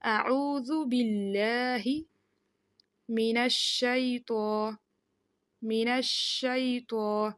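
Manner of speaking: من الشیطان drawn out with a clear شین; slow careful recitation. Shown as a demonstration. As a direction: recite من الشیطان slowly, every letter distinct. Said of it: "ہا اور ہا مکس نہ ہو". (من الشیطان آہستہ اور صاف ادائیگی)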